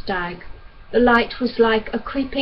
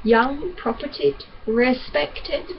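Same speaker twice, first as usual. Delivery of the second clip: sneering, questioning repeat of each word; bitter mockery of the doctor's praise; mocking echo; 3 semitones higher, slower than usual. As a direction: throw his words back at him. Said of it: "what were those gracious words you used?".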